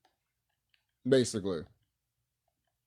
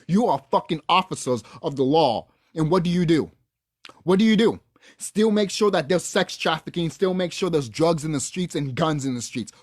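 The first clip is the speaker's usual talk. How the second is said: raised, heated rant against the cops; angry rant; 3 semitones higher, 4 dB louder than usual. Real, not acted. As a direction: vent your fury, louder and louder. Ranting at police.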